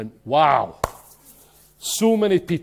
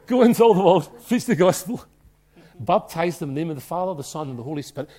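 loud, rising proclamation of the command; fervent scripture shout; excited quote; 4 dB louder than usual. Retold or imitated. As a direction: burst out with the verse. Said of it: "I'm getting too excited".

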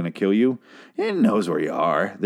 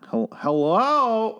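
very high, slow stammered "hello" like a comedy sketch Jewish character; a hammed-up Jewish sketch voice; 13 semitones higher, much slower than usual. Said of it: "like a sketch character that was Jewish".

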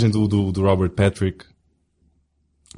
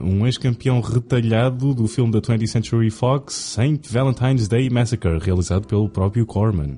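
a hint of ring announcer hype; mildly hyped boxing introduction; brash fight promoter hype. Announcing a mock boxing match.

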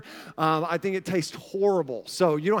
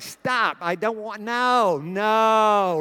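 reenacted exasperated "no"; exasperated refusal; 2 semitones higher, much slower than usual. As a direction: plead for it to stop, stretching each no. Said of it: "it's how I was like".

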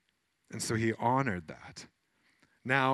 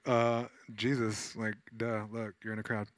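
snarky disciples. Retold or imitated. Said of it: "I'm a little snarky in my brain".

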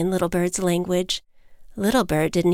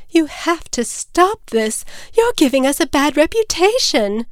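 high, insistent plea; begging; 7 semitones higher, 4 dB louder than usual. Acted. Mother bird begs her chick to stop, pleading. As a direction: plead as a distressed mother, pitched up. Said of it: "his mother begged".

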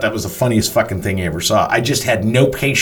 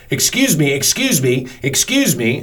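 higher-pitched imitation of calling out; mock yell; 4 semitones higher than usual. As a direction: call for attention, only half yelled. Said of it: "She yells from the stage".

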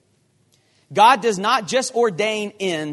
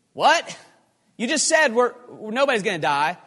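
baffled outrage; 4 semitones higher, 3 dB louder than usual. Acted. Crew baffled by Paul's warning.

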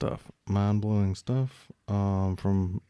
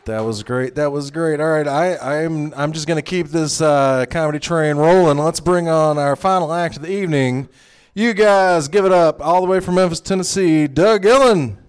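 loud, raised stage announcer; emcee introduction; 7 semitones higher, 9 dB louder than usual. Real, not acted. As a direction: build up to the comedian's name, projecting loudly. Emcee introduces the final act.

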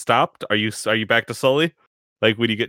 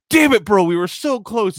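bro voice; 10 semitones higher than usual. Acted. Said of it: "they're like".

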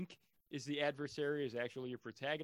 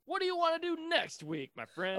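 excited; 14 semitones higher, 5 dB louder than usual. Acted. Hammed-up outro banter.

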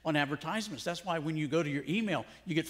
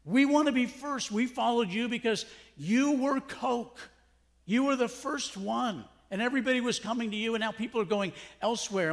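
higher, louder, pleading complaint; whiny jealous disciples; 5 semitones higher, 4 dB louder than usual. Retold or imitated. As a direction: voice them like jealous followers. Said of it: "John's disciples are feeling that".

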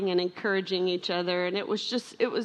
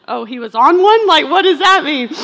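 much higher and louder, baffled question; puzzled; 7 semitones higher, 13 dB louder than usual. Retold or imitated. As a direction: sound bewildered by the slang. Mother retells puzzled reply.

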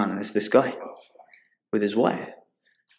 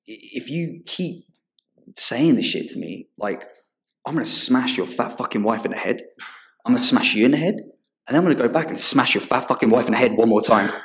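menacing threat; 3 semitones higher than usual. Retold or imitated. Threatening the aggressive customer.

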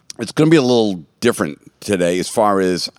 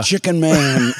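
raised, ominous announcer voice; dramatic announcer; 6 semitones higher, slower than usual. Retold or imitated. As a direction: build it up like a big reveal. Acting out movie announcement.

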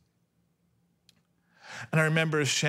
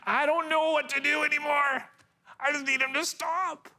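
higher, pleading cry for help; desperate prayer; 11 semitones higher than usual. Retold or imitated. A worn-out father praying over his crying baby, pleading. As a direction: beg like you have nothing left. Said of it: "I said".

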